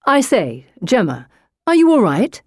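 swooping, anxious brother voice; concerned brother. A narrator's reading. Brother checks on his shaken sister, concerned. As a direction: ask with real worry. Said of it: "Tom is truly concerned".

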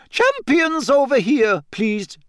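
high, loud, stretched-out summons; calling out. A narrator's reading. Professor summons the champions through the crowd, calling out high and loud. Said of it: "Professor McGonagall's voice called".

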